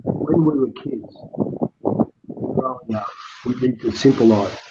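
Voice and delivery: slow, deliberate phrasing for a bad line; slow and clear. Real, not acted. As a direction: stretch the words out so they carry. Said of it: "I'll try one more time".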